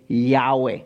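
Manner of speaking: Yahweh said as yah-weh, two open syllables, falling; Yahweh, yah then weh, falling. Shown as a demonstration. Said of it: "we add the Y A W E H and say".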